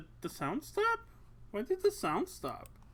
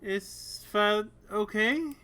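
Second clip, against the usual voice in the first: put-on shy girl voice; 3 semitones higher, slower than usual. Belle voiced, shy request.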